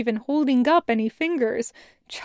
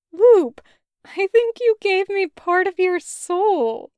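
lightly voiced boy, higher, eager; gushing boy voice; 5 semitones higher, 5 dB louder than usual. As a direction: blurt out big feelings, pitched up. Boy gushing to his sister.

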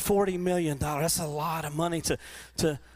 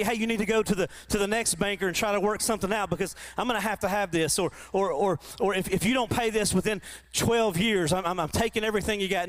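harsh lender; 5 semitones higher than usual. Retold or imitated.

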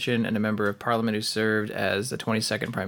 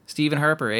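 mock Canadian Stephen Harper, eh; Canadian twang on Harper, eh; a touch of Canadian accent; 2 semitones higher than usual. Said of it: "say the word Harper with a Canadian accent".

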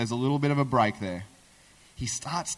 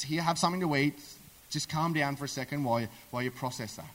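softer, lower, calming him down; soothing; 3 semitones lower, 6 dB quieter, faster than usual. Acted. Wife handing David food to calm him, soothing. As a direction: gently talk someone down.

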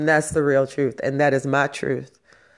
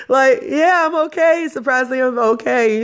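higher, louder, upbeat reply; bright reassurance; 9 semitones higher, 4 dB louder than usual. Real, not acted. Answering worried friends, high and cheerful. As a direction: reassure the friends she's fine, with a lift.

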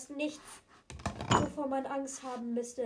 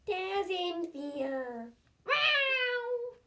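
amazed; 6 semitones higher, much slower than usual. Acted. Kid amazed at platform.

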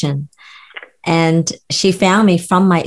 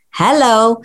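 lightly voiced pleading organ, higher pitch; gallbladder calling out; 4 semitones higher than usual. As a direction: call for attention as a gallbladder. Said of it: "your gallbladder was basically giving you signs".

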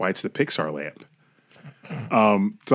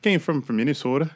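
high, rising mock Minnesota accent; 7 semitones higher than usual. Host practising a Minnesota accent for his rental car, mock Minnesota accent. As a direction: try out a Minnesota accent, hammed up. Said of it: "I'm gonna work on my Minnesota accent".

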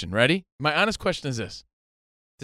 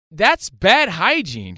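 imitating Jordan; 4 semitones higher, 6 dB louder, much slower than usual. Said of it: "she goes".

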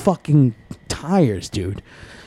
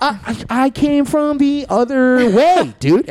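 higher, flustered excuse; nervous denial; 8 semitones higher than usual. Retold or imitated. Denying to coworkers, flustered and higher. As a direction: dodge the blame. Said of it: "And I was like".

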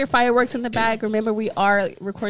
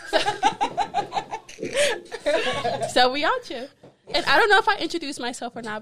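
laughing; 8 semitones higher than usual. Real, not acted. Laughing after story.

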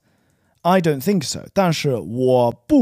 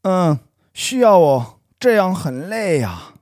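put-on teenager voice; 4 semitones higher, 4 dB louder than usual. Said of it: "You sound like a teenager".

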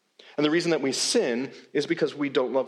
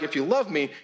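demanding reading. Retold or imitated. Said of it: "we read it like".

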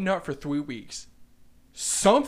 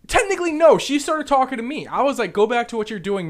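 indignant protest; 7 semitones higher, 8 dB louder than usual. Real, not acted. Defends self against blame, heated.

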